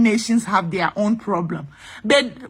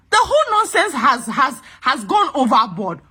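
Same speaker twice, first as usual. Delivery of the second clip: real indignation; 2 semitones higher than usual. Real, not acted. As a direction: burst out in exasperation, pitch way up. Venting indignation at tribalism.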